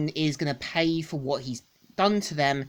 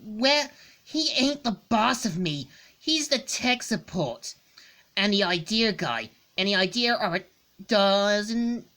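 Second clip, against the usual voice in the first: Scourge voice; 5 semitones higher than usual. Acted. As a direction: play the brash hothead, pitched up. Voices Scourge over many lines.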